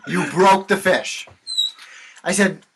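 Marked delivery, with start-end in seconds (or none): 0.1-1.3 mock customer. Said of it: "let that sink in".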